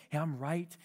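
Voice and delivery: a gentle correction to a friend. Retold or imitated. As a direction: say I'm right gently. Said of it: "I'm being gentle".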